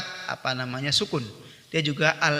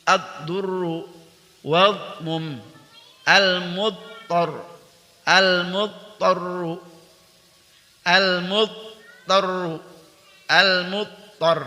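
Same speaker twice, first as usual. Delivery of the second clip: Quranic recitation drill. Shown as a demonstration. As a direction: recite each word as a model for students. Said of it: "Kita berlatih".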